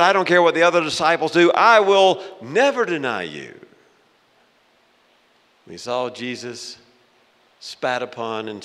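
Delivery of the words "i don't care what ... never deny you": loud, high, emphatic boast; vehement vow. Acted. Peter swearing loyalty to Jesus, vehement vow. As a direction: swear it at full force, pitched up.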